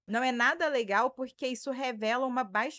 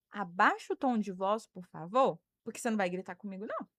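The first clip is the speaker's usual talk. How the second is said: measured, lower-pitched firm request; firm boundary-setting; 4 semitones lower than usual. Shown as a demonstration. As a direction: set the limit without raising your voice. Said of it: "você faz assim, ó".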